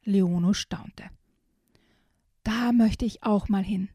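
put-on lively storybook reading for small kids; reading to children. Host reading a children's book excerpt to young listeners, storybook voice. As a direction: read it like a bedtime picture book. Reads picture book aloud.

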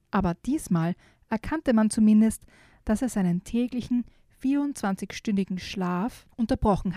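put-on lively storytelling voice for a children's book; story narration. A narrator's reading. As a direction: read it like an audiobook for kids. Reads a children's book aloud. (Vorleserin einer Kindergeschichte)

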